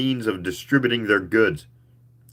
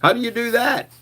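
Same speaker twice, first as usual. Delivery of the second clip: interested. A narrator's reading. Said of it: "I asked, interested".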